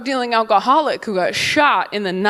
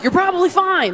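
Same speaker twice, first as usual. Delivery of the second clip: Arkansas stranger; 8 semitones higher than usual. Acted. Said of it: "someone from Arkansas is like".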